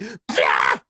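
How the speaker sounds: low gruff put-on yeah; lightly voiced brute cheer; mock low yeah. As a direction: growl it like a brute. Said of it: "Just like".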